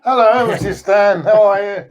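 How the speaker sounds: polished, proper greeting; posh voice. Acted. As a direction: put on a posh accent. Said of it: "He's got his posh voice on now".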